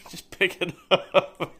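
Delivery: slow, loud words broken by laughter; laughing. Real, not acted. Joking to viewers about taking the floor, laughing slowly. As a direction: laugh out the punchline. Laughing at his own joke.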